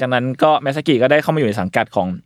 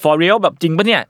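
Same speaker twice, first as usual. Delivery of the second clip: mild disbelief; 5 semitones higher, slower than usual. Retold or imitated. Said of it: "คุณมาซากิบอก".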